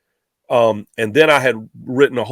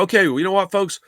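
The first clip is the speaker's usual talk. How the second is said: radio announcer voice; 6 semitones higher, faster than usual. Retold or imitated. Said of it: "I go".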